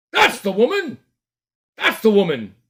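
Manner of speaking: high, loud accusing cry; shouting accuser. Acted. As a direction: point and yell at her. Fat man accusing in crowd.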